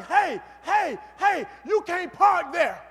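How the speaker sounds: security guard hollering a warning; yelling. Retold or imitated. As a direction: call out sharply to stop someone parking. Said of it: "And he's yelling".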